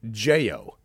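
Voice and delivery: JAIL as a broad Aussie "J-O"; imitated Australian accent. Quoting a friend's cousin saying jail, imitated thick Australian accent. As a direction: mimic a ridiculous Australian "J-O". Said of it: "most ridiculous Australian accent I've ever heard".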